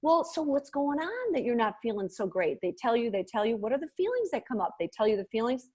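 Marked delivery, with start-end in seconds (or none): 0.0-2.6 slowed-down voice. Shown as a demonstration. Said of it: "you wanna slow down your voice and go".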